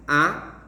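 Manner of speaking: "Apóstolo" split into four separate syllables. Shown as a demonstration. Teacher counting syllables for students, "Apóstolo" syllable by syllable. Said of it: "São quatro sílabas".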